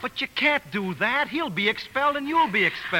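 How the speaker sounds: alarmed protest. Acted. Lovers' quarrel.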